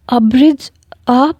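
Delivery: slow, rising stunned question; taken aback, drawing the name out; shocked disbelief. Acted. Fiancé stunned to learn caller is Abraj, slow and shocked. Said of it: "mobile چھوٹتے چھوٹتے بچا".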